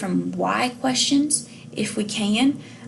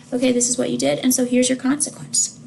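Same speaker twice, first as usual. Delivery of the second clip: matter of fact, insistent; 3 semitones higher than usual. Shown as a demonstration. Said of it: "very matter of fact but insistent voice of".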